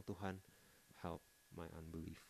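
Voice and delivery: whispered-down prayer to God; hushed prayer. Retold or imitated. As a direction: breathe the prayer quietly.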